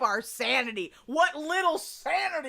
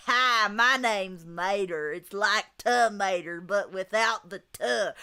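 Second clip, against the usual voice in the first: Mater voice; 4 semitones lower than usual. Pretend. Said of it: "I'll use my, my best, uh, Mater voice".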